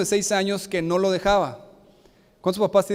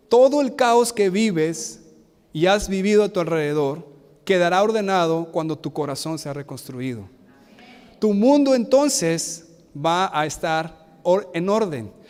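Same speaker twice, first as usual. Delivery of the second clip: measured, emphatic sermon reading; solemn reading. Acted. Reads slide text slowly.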